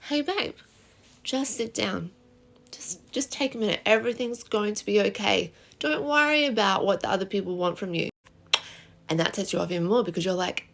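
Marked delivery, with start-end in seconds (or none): 0.1-8.1 softer, calming the upset wife down; soothing husband. Acted. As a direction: gently talk her down, hammed-up calm. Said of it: "so freaking dramatic and over the top".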